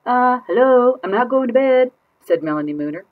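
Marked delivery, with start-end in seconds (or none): 0.0-1.9 put-on much higher, louder little-girl voice; cheeky kid refusing bed; defiant child.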